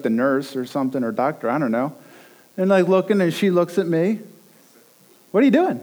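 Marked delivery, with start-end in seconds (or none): 5.3-5.8 high-pitched comic disbelief; mock alarmed challenge. Anxious new dad to the nurse, mock alarmed challenge. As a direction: imitate a controlling dad questioning the nurse.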